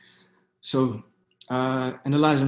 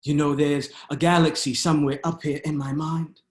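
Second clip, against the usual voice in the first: measured poetry recital with dramatic pauses; spoken-word poem; 3 semitones higher than usual. Acted. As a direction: perform it as spoken-word poetry, leaning into key words.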